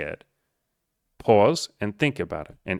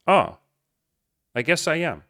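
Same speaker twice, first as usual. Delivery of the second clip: surprised realization; 7 semitones higher, 3 dB louder than usual. Retold or imitated. Client realizing he's doing well.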